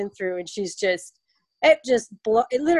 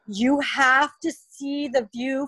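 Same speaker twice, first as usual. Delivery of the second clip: laughing gush; 3 semitones higher, slower than usual. Retold or imitated. Lindsay gushing about the view.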